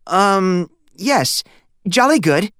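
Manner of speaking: high, unsure imitation of "jolly good"; a boy trying out a British "jolly good"; Stanley echoing the caller's Britishness; boy copying a British phrase.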